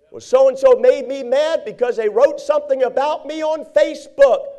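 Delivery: imitating a petty grudge about Facebook; whiny complainer. Imagined complaint of a church member.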